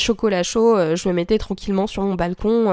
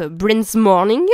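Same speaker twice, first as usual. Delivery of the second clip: French accent; much slower than usual. Shown as a demonstration. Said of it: "Quel accent incroyable".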